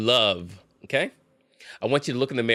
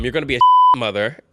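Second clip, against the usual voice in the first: mock boyfriend insult; 9 dB louder, faster than usual. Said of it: "Stuff like".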